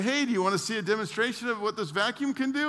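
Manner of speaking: quick, eager salesman pitch. Retold or imitated. Vacuum salesman at Penny's inviting shoppers, fast eager pitch. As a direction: hook passers-by into a demo, fast. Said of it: "he'd say".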